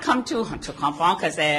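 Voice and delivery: ordinary delivery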